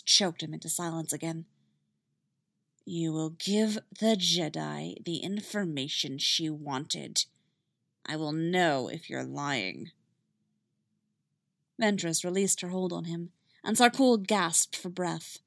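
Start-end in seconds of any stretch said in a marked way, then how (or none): 2.9-9.9 cold, slow menace. Acted. Ventress threatens prisoner.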